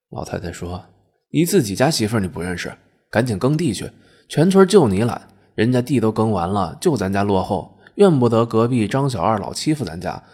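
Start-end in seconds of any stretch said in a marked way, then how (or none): 1.3-10.2 nagging scolding. Acted. Wife nagging her lazy husband.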